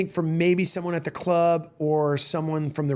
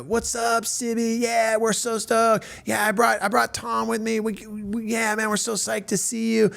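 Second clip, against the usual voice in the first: high-pitched, stretched-out hyped greeting; Rick; 6 semitones higher than usual. Retold or imitated. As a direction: imitate a stoked friend gushing hello. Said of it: "and Rick's like".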